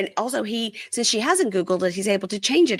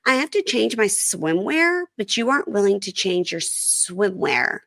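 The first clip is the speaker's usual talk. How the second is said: slow, pointed complaint, pitched up at first; aggrieved wife; 3 semitones higher than usual. Retold or imitated. Host voicing wife's swimwear complaint to husband, aggrieved. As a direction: imitate a wife drawing out her grievance.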